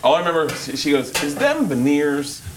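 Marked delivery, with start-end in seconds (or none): 1.2-2.4 slow, drawn-out Brooklyn imitation; lightly mimicked Brooklyn accent, stretched out. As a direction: feel your way into a Brooklyn girl's accent. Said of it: "it was like a Brooklyn accent".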